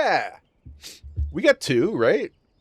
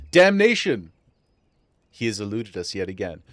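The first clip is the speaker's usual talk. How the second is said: mock villain exclamation; 3 semitones lower, 4 dB louder than usual. Reading game villain dialogue aloud.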